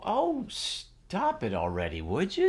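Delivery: hammed-up squeamish protest, pitched high; a disgusted believer begging the teacher to stop; squeamish reader. Imitating hardcore readers pleading to skip the gory details, high and squeamish. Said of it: "hardcore committed Jewish people would read this and go".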